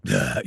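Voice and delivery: short, guttural grumbling "bleh"; grumbly growl. Shown as a demonstration. Voice actor showing what his voice could sustain for hours, grumbly growl. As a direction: growl it from low in the throat. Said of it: "It could handle the grumble".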